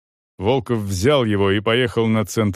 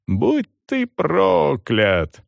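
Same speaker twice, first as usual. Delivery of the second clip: very slow, higher drawn-out curse; roaring curse; 5 semitones higher, much slower than usual. A narrator's reading. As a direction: howl the curse once more. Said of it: "ревела женщина".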